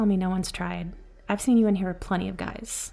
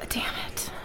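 a soft breathy curse under the breath; whispered curse; 6 dB quieter than usual. Acted. Bartender whispers a curse as the girl runs off. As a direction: swear quietly to yourself.

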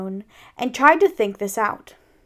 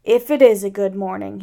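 mildly gloomy donkey, louder and doubtful; Eeyore; 4 dB louder than usual. Acted. Eeyore doubting Pooh's good morning, gloomily. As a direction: cast glum doubt on the greeting. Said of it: "said Eeyore gloomily".

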